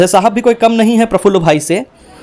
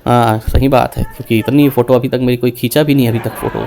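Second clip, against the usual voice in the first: low rocket voice; 8 semitones lower than usual. Retold or imitated. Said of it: "बोले".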